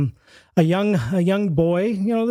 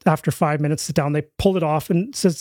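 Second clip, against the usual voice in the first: ordinary delivery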